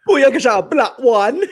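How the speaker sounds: high, hammed-up Jamaican patois; bad Jamaican accent. Co-host mocking the show's accent, bad Jamaican accent. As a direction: badly fake a Jamaican accent. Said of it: "Jamaican accent was so bad".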